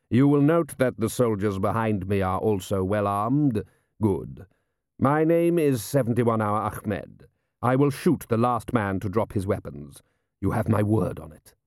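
measured, lightly voiced foreign commander; composed menacing commander. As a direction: state the threat with calm authority. Ahmed threatens the armed men.

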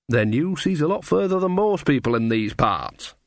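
a hint of a folksy countrywoman; rustic dialogue, gently put on; lightly voiced Nanny figure. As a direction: lightly play a chatty rustic character.

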